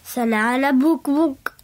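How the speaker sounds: reversed gibberish sounds; backwards speech. Shown as a demonstration. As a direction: mimic a reversed recording. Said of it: "try and say that backwards".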